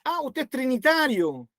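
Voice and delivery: burla. Retold or imitated. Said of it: "los que se burlan de nosotros".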